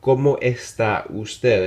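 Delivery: ¿Cómo está usted? said slowly and carefully; slow polite model. Shown as a demonstration. Teacher showing the respectful form slowly. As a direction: model the formal question slowly. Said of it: "you might say".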